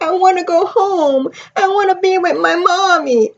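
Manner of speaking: put-on a touch of a small child pleading; quoting the little girl. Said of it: "And she's like".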